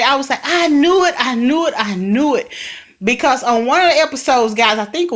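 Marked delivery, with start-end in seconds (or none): 0.4-2.5 excited repetition. Retold or imitated. Viewer reliving her excitement at the episode, excited repetition. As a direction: reenact a thrilled viewer, dropping in pitch with each repeat. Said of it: "I was so excited".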